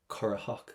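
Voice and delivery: Currachach with no T sound, an h in its place; silent T in Currachach. Shown as a demonstration. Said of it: "Do not pronounce the letter T".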